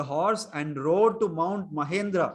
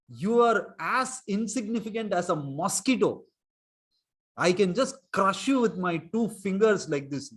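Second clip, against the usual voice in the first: a touch of a stern sage's contempt, understated; half-hearted mock rebuke; mild scolding. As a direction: scold him lightly, mocking his smallness. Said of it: "He scolded Kamsa".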